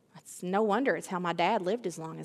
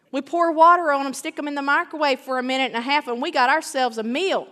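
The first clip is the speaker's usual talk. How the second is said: mocking; 5 semitones higher, 6 dB louder, faster than usual. Mocking instant society.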